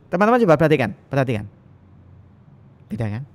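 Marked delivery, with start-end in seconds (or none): 0.1-1.4 loud opening, emphatic "coba perhatikan"; intonation without gestures. Shown as a demonstration. Lecturer demonstrating to students intonation without style, an emphatic call for attention. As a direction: call out firmly, then settle on "perhatikan". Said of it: "Intonasi tanpa gaya misalkan".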